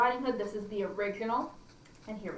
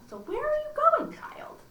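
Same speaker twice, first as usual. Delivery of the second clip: wolf. Acted. Wolf voice in story.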